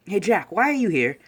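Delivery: lightly acted surprised greeting; puzzled challenge. Izuku turning to Jack, puzzled. Retold boy questions intruder.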